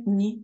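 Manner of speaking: softened, palatal N in "ні"; soft N. Shown as a demonstration. Teacher contrasting consonants for pupils, soft N. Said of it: "м'який".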